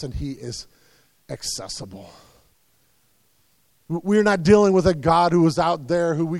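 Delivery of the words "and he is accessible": much lower and softer, almost hushed; hushed emphasis. Real, not acted. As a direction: let it fall quietly. Drops to a near hush.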